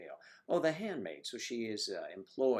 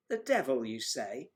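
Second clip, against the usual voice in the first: mock shock; 2 semitones higher, 6 dB louder than usual. Mock-shocked retort to chat.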